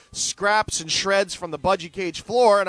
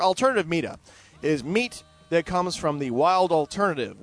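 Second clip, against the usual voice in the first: ordinary talk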